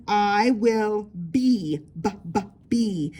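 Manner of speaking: slow I will be, then b b be; sounding out. Shown as a demonstration. Teacher sounding out be for kids. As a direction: tap out the b sound. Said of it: "get my mouth ready".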